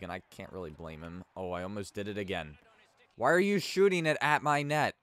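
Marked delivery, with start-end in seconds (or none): 3.2-4.9 louder, higher annoyed demand; exasperated outburst. Real, not acted. Goalie yelling at his own teammate for shooting at him. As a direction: scold the teammate in disbelief.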